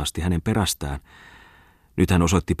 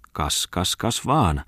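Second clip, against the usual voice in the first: mocking; much slower than usual. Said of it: "ilkkui maisteri Bungman".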